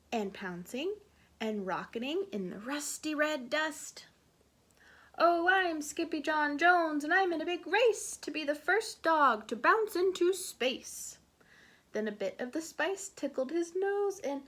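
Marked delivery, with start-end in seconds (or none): 5.2-11.2 loud, high bouncy chant; excited kitten voice. Acted. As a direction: belt it out with glee. Skippy sings while bouncing.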